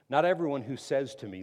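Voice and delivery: loud, weighty scripture line; emphatic reading. Shown as a demonstration. Preacher reading verse to the congregation, loud and weighty. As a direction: lean hard on everyone. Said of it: "The verse I just read".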